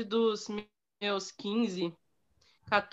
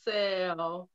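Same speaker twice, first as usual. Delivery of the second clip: slow exasperated sigh; much slower than usual. Retold or imitated.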